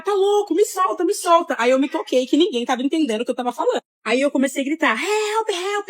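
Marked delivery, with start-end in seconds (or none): 0.0-1.6 high frantic yell of tá louco, me solta; retold scream. 4.9-5.9 high, desperate cry of help; retold scream for help. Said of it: "igual uma louca".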